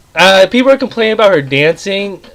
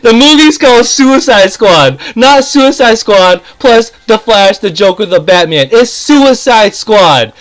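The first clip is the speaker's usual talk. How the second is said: angry rant; 4 semitones higher than usual. Real, not acted. Reviewer scolding fans who want the Flash there, heated and raised. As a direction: hammer the obvious point home. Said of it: "I'm about to get really pissed off".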